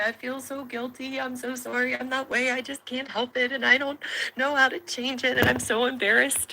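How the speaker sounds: high, hushed, tearful pleading; imitating a weepy wife's apology; acted emotional guilt. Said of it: "and just so emotional".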